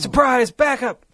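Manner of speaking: high, drawn-out surprise announcement; mock dramatic reveal. Co-host hamming up a surprise wrestling twist, mock dramatic. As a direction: play up the big reveal, slow and high.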